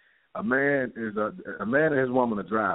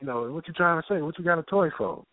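defensive man; 5 semitones higher than usual. Retold or imitated. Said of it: "And the man".

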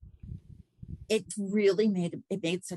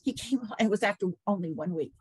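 normal talking voice

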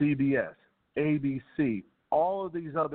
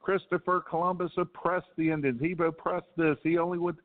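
higher-pitched mock rant of a protester; 5 semitones higher than usual. Commentator lampooning Columbus Day protesters, higher mocking voice. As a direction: parody the shrill accusations, a bit higher. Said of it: "yells and screams and says".

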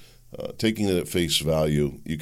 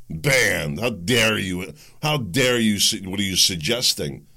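mock indignation; slower than usual. Acts out censors scolding a questioner.

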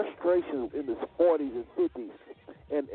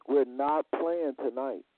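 "We're not playing tonight" said slowly, each word weighed; slow it right down and lean on every word of "We're not playing tonight"; slow, deliberate repeat; slower than usual. Shown as a demonstration.

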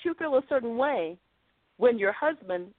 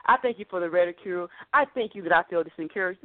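lower, mock-grateful prayer; lower, pretend-thankful prayer to God; mock pious thanks; 6 semitones lower than usual. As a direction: recite thanks he never would give. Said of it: "he didn't say".

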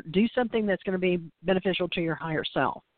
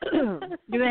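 scratchy allergy voice; hoarse voice; 5 semitones higher than usual. Real, not acted. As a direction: speak through a rough throat. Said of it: "this voice I've got today".

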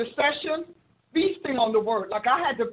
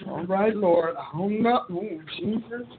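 nervous mock plea; 3 semitones lower, slower than usual. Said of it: "I'm so nervous".

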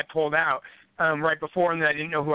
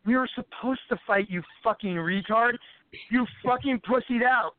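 slow, emphatic mock scolding; retold angry retort; 3 semitones higher than usual. Fighter answering the rival who pesters him, retold irritation. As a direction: spell it out with exasperation.

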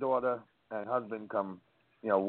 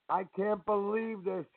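starstruck; 9 semitones higher, 4 dB quieter, slower than usual. Retold or imitated. Star-struck girl meeting chef.

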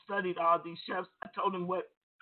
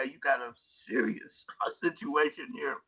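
chuckling mid-phrase, a touch lower; laughing through it; 5 semitones lower than usual. Retold or imitated. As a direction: let a laugh break into the warning. Laughs while warning the caller.

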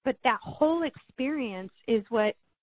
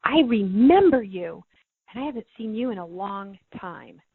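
emphatic tearful recognition; 6 dB louder than usual. Retold or imitated. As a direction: lean hard on "I remember you" as if greeting a lost friend. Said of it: "I started crying, going".

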